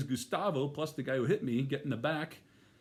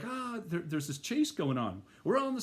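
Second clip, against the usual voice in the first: breathless cop on the radio, higher; mild mock panting radio call, pitched up; huffing and puffing; 6 semitones higher than usual. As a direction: imitate an out-of-breath officer narrating a chase. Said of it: "and they're huffing and puffing".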